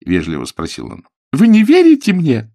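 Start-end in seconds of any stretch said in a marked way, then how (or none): 1.3-2.5 high, loud indignant cry; Billy cries out at Mr Peters. A narrator's reading. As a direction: burst out in disbelief. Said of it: "вскричала Билли".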